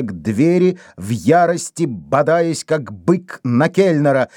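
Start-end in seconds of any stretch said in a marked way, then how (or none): none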